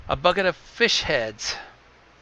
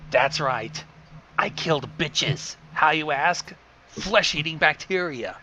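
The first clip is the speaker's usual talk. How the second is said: raspy voice. Acted. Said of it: "in a raspy voice that sounded like garlic".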